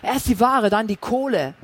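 heated threatening reply; angry retort. Acted. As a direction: shove the words back at him. Thug quarrels with dealer.

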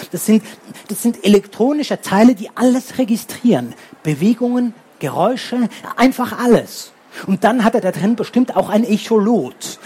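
lightly voiced clever boy showing off his knowledge; lecturing know-it-all.

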